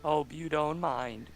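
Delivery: Stephen Hawking voice. Pretend. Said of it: "I'll try to do my, uh, my Stephen Hawking".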